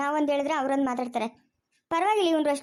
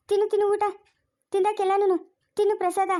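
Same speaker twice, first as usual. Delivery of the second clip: high-pitched, insistent coaxing; urging to eat; 5 semitones higher than usual. Acted. Offering temple food to a companion, urging. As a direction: keep pressing him, voice raised in pitch.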